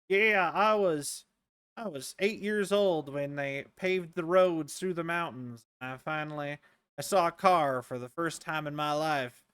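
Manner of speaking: slow, drawling old-timer imitation; lightly voiced rural elder, reminiscing slowly; old country folk. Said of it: "some old people who are like".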